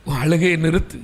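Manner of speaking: a stern servant starts low and firm; low scolding servant. Retold or imitated. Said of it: "ஊழியர் சொல்லுகிறார்".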